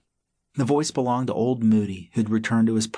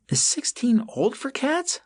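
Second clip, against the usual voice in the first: slow, careful question; slower than usual. A narrator's reading. Possum asks slowly.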